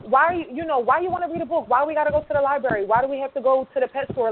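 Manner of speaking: incredulous, teasing parent voice; mocking parent. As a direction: scoff at the child's interests. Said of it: "talk to their child like".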